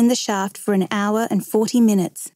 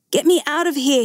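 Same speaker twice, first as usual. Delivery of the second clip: put-on higher-pitched plea of a scared boy; frightened cry; 6 semitones higher than usual. A narrator's reading. Terrified boy begs his rescuers, frightened cry. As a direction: plead to be rescued, voice raised in pitch. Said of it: "he cried".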